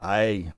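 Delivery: "a" said as a long ay with no h; drawn-out demo of "a" as "ay"; smooth breathing demo. Shown as a demonstration. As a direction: start "a" straight on the vowel, like "ay". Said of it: "So it is just".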